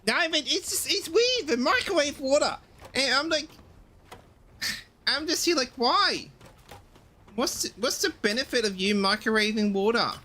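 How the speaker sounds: squeaky outraged why; exasperated rant. Real, not acted. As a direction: pitch shooting up in disbelief. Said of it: "Rant's over".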